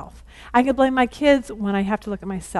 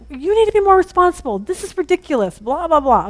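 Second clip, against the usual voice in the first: retold scolding; 5 semitones higher than usual. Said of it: "but I yelled at him".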